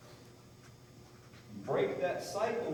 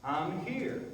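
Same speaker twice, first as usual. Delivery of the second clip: loud, higher calls of comfort; reassuring call; 6 semitones higher, 6 dB louder than usual. Real, not acted. Trainer calling to his scared mare, loud reassuring calls. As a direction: call out steady so she knows you're there.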